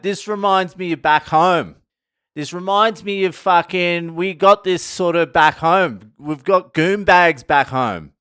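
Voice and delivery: a hammed-up eager tourist boast; imitating the brother. Australian brother bragging to the Mexican tour guide, hammed-up. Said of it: "he's like".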